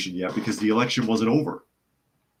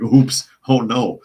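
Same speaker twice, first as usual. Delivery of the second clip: laughing; 3 semitones higher, 8 dB louder, slower than usual. Real, not acted. Laughing at whistleblower mix-up.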